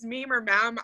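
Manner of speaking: "meme or meme" said as "meem or mam"; first "meme" with long ee, second "meme" rhyming with "ham"; two pronunciations contrasted. Shown as a demonstration. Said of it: "I'm probably saying it wrong".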